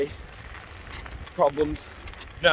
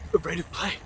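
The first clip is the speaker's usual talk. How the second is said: mocking gruff man; 2 semitones higher, 5 dB quieter than usual.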